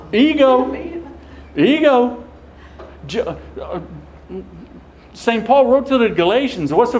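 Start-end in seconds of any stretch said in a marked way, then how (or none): 0.1-2.2 emphatic ego. Acted. Repeated one-word answer, emphatic.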